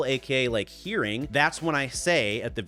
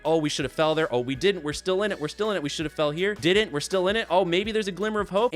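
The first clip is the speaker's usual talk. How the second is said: excited streamer; 4 semitones higher than usual. Retold or imitated. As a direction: keep cheering yourself on, hopeful. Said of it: "there's a lot like".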